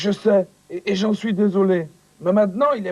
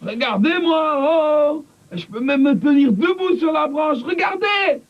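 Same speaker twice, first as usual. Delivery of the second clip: boastful calling; 6 semitones higher than usual. Acted. Coco calling out from branch.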